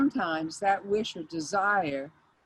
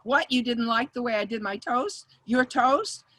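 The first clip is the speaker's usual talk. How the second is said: higher, louder mock indignation; mock pissed off; 5 semitones higher, 6 dB louder than usual. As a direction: play at being offended and tell them off. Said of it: "I could have gotten pissed off".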